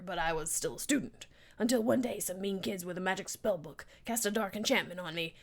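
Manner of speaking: a hint of a rough monster voice, partly whispered; spork monster voice. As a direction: voice the remorseful monster lightly. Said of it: "This is killing my voice".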